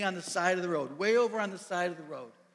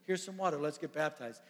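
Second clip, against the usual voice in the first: excited stop; 3 semitones higher than usual. Retold or imitated. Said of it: "he's like".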